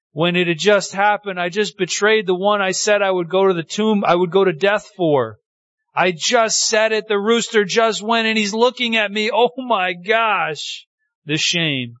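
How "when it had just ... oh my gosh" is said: acted horrified guilt. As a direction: play a man appalled at his own betrayal. Voicing Peter's horror after denial.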